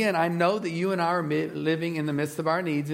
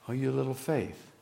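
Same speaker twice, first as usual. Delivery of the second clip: hopeful; 3 semitones lower, 5 dB quieter than usual. Retold or imitated. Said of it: "we hear it saying".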